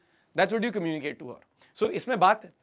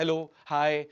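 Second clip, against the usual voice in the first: "Hello, hi" ending like question marks; "Hello, hi" as an unsure question; questioning, subdued; 3 semitones lower, much slower than usual. Shown as a demonstration. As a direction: say "Hello, hi" tentatively, tailing off unresolved. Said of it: "almost as a question mark in the end".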